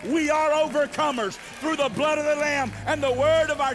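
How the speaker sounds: fervent call and response; building preaching refrain. Acted. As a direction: build each line to the hallelujah.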